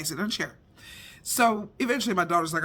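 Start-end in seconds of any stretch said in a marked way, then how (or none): 0.0-0.6 low, soft, gentle request; soft reassurance. Retold or imitated. Mother hugs son and gently asks him to sit, soft and low. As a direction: soothe him into the chair. You're okay.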